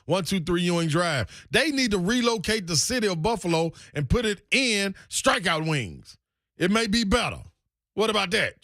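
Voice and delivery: lively, punchy pitchman delivery; ad read. Acted. The speaker selling a wings spot, animated ad read. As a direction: sell it with rising emphatic bursts. Performs recorded restaurant ad read.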